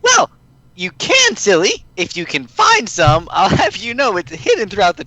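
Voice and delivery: cheery playful Pinkie line. Acted.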